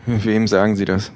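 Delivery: plain reading voice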